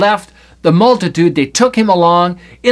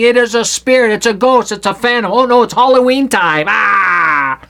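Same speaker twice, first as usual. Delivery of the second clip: raised pitch, hammed-up panic ending in a yell; mock fearful cry; 3 semitones higher than usual. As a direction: play disciples spooked by a ghost. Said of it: "they cried out for fear".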